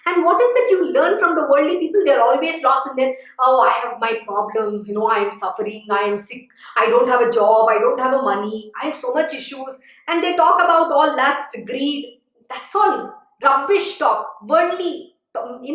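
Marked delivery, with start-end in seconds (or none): 3.4-9.8 complaining. Acted. Acting out worldly people's complaints.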